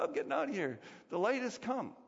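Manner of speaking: high, mock-panicked cry of escape; mock panic as the light arrives; panicked fleeing cry. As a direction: play a cockroach scrambling away in alarm.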